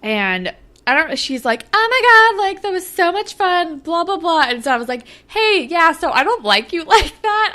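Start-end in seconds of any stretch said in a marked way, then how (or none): 1.7-4.4 put-on very high, excited teen squeal; mock gushing. Voicing gushing Jenna. 5.3-7.5 high, louder put-on teen voice; awkward let-down.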